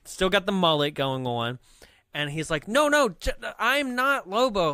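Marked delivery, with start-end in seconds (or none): 2.7-4.7 high, loud, stretched-out denial; mock frantic protest. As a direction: plead to be believed, pitched up. Acting out frantic confession.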